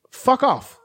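high-pitched British parrot swearing; British accent. Retold or imitated. Parrot cursing out its rescuer in a mock British accent. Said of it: "in a British accent".

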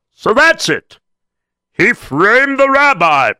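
high, loud and slow; sudden realization. Acted. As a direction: it dawns on him all at once. Captain's realization.

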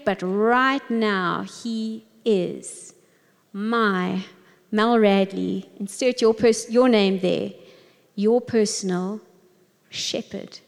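slow pondering, word by word; meditative reading. Acted. Leader guiding listeners through the verse, slow and meditative. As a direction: let each word sink in slowly.

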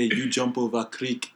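slow put-on African accent; deliberate mock African accent. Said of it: "African accent".

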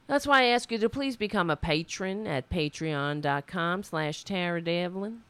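lightly put-on southern accent; a playful touch of southern accent. Host asking listeners for patrons, in a light southern accent. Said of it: "put on a southern accent".

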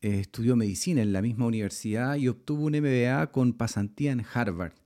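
measured, polished host introduction; podcast intro read. Acted. Host reads the show intro.

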